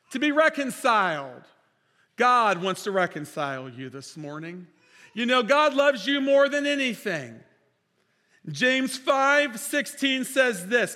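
fervent sermon delivery; preaching. Acted. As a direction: proclaim it to the congregation. Pastor preaching, reading scripture.

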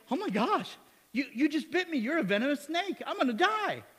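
the bitten woman shrieking in hammed-up alarm; panicked woman. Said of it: "she's like".

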